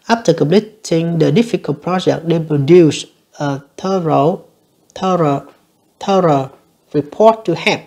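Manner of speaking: slow, careful reading of the test sentence; slow dictation read. Shown as a demonstration. Teacher reading an exam sentence to learners, slow and careful. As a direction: read it out slowly for students.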